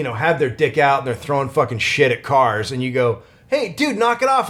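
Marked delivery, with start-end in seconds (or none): 3.5-4.5 retold indignant scolding. New Yorker telling off someone throwing things at cars, retold indignant scolding. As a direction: call out the offender in a raised pitch. Acted confrontation with rude stranger.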